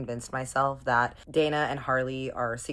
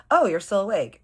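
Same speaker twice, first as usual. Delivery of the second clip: higher, louder flustered greeting; startled surprise; 6 semitones higher, 8 dB louder than usual. Retold or imitated. She finds him awake in the dark, startled. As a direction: act caught out, voice jumping up. Caught sneaking into the bedroom.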